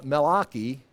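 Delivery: Malachi with an ah, mal-AH-kee; Hebrew A sound. Shown as a demonstration. Learner showing the Hebrew name, Malachi as mal-AH-kee. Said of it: "with the A sound".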